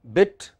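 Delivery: "bit" with a short i; short vowel. Shown as a demonstration. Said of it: "One is short".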